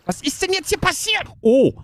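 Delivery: stunned by the chaos; bewildered. Real, not acted. Bewildered at the game mess. (hoch und fassungslos)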